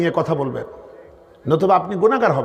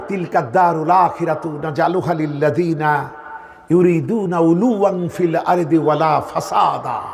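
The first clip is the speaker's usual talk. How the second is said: measured Arabic verse recitation; Quran recitation. Acted. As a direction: recite the verse, drawing out its final words.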